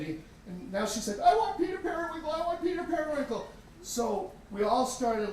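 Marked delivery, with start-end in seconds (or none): 1.2-3.5 put-on high, fast childish whine; whiny little girl. Daughter demanding her lost pet, whiny child voice. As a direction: whine like a small kid wanting her toy.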